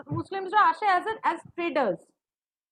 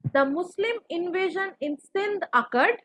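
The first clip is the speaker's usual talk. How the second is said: very slow, word by word dictation; much slower than usual. Shown as a demonstration. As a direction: dictate each word slowly for notes. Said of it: "Are you guys writing?".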